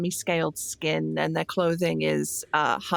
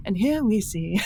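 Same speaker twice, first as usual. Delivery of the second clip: David Attenborough. Retold or imitated. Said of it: "David Attenborough mode".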